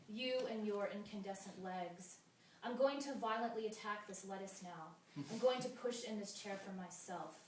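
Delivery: measured verse with pauses between images; even, deliberate poem recital; poetry reading. Acted. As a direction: read each line as verse, letting the endings fall.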